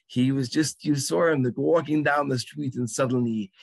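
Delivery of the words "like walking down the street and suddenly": ordinary talk, nothing marked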